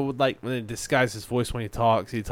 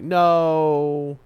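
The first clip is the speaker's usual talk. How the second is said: emphatic denial; 4 semitones higher, 5 dB louder than usual. Retold or imitated. Retelling own emphatic denial.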